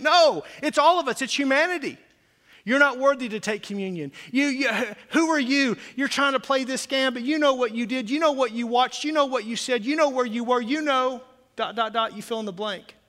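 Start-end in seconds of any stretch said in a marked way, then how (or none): 2.7-13.0 accusing enemy. Retold or imitated. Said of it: "The enemy of your soul wants you".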